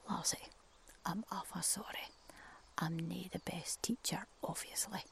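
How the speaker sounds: soft apology. Acted. Crow quietly apologising to cuckoo after the fall. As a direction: apologise gently, a bit sheepish. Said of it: "he patted her".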